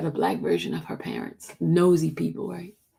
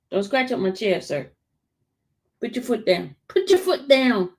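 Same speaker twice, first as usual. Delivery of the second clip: scolding the dog; 3 semitones higher than usual. Real, not acted. Scolds dog scratching her chair.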